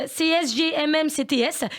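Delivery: letters spelled out slowly; slow spelled acronym. Shown as a demonstration. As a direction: spell it out deliberately for listeners. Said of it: "vous dites juste". (sigle épelé lentement)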